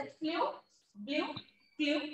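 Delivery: फ्लू, ब्लू, फ्लू as separate rhyming words, pauses between; rhyming word demo. Shown as a demonstration. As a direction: say फ्लू, ब्लू, फ्लू one by one with the same 'oo' ending. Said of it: "इनका जो sound आ रहा है वो लगभग same". (फ्लू, ब्लू, फ्लू को रुक-रुक कर, एक लय में बोलें)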